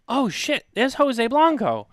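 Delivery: high, slow, thrilled gasp of recognition; excited recognition. Retold or imitated. Retelling spotting Jose at baggage claim, excitedly. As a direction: spot a friend and light up. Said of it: "And I got all excited".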